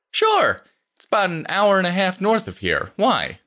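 put-on high-pitched, obliging young man; helpful Carlos. Voices Carlos in the story.

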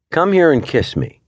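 playful wife. A narrator's reading. Wife teasing husband to kiss her, high playful voice. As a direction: coax him in a high playful tone.

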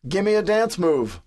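slow, high-pitched bark; barked order. A narrator's reading. Captain ordering the writer to dance, barking. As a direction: bark it out as a command. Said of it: "Wilson barks".

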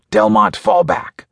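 high, drawn-out order to retreat; urgent command. A narrator's reading. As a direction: call your team back urgently. Leader orders retreat under threat.

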